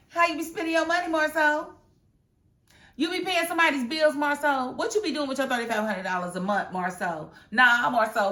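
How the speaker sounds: mock Tisha grilling Marceau about money; mock interrogation. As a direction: press him with each question. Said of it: "mock grilling Marceau".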